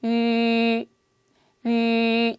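위 with rounded lips fixed, no glide; Chinese ü. Shown as a demonstration. Teacher shows 위 with fixed rounded lips for students. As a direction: hold lips round through the whole 위. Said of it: "선생님 입술 모양 보세요".

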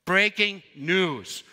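slow dramatic news announcement; broad singsong kids theatre. Shown as a demonstration. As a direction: announce it like a TV anchor. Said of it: "Here it goes".

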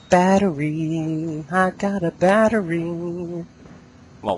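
high, loud excited cry of battery; excited squeal. Acted. Gamer finding a battery in the dark, excited high squeal. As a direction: squeal it like a prize win.

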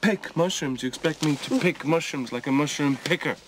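scornful. Acted. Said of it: "get a bit more scorn into the words pick mushrooms".

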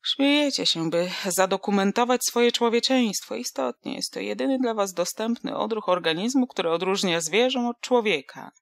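a tipsy philosopher holding forth to youngsters; mock lofty oration. Same philosopher voice.

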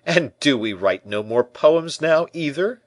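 high, loud teasing question; laughing tease. A narrator's reading. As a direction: tease a friend, pitch climbing to the end. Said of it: "said the musketeer, laughing".

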